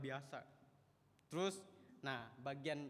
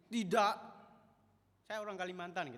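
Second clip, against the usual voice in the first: joking denial; 5 semitones higher, 9 dB louder than usual. Acted. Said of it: "maksudnya saya gitu".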